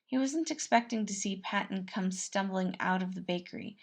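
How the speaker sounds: ordinary delivery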